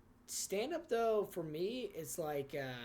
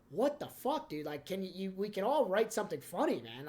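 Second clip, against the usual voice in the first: irritated retort; 3 semitones higher, 3 dB louder than usual. Retold or imitated. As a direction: snap at the crowd in mock disbelief. Mocking an angry comic's retort.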